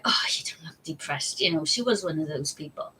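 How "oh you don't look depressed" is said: dismissive mum. Retold or imitated. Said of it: "be like".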